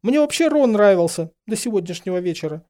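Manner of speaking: high, loud, distraught; tearful, high-pitched confession; almost sobbing. A narrator's reading. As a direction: protest as if about to burst into sobs. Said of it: "Тут уже она едва не разрыдалась".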